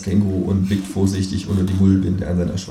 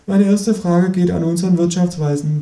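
higher, bright presenter voice for the moderator; 10 semitones higher than usual. Acted. Talk show host opening the round, higher host voice. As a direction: voice the eager TV host. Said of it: "beginnt die Moderatorin".

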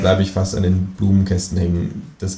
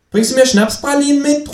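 high, louder kangaroo call; 5 dB louder than usual. Acted. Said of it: "ruft das Känguru". (das Känguru ruft laut nach unten)

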